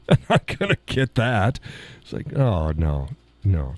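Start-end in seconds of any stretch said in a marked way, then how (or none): 0.1-1.6 giving up through laughter; amused, laughing protest. Real, not acted. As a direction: laugh your way through the refusal. Laughing at impossible German word.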